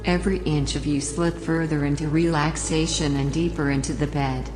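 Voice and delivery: calm, unhurried relaxation guide voice; sleep story narrator. Acted. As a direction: guide the listener down into the bed. Leads a relaxation induction.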